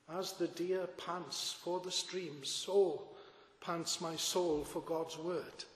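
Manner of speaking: soft, slow psalm reading; gentle devotional reading; scripture recitation. Acted. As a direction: read the verse softly and slowly. Quoting psalm softly.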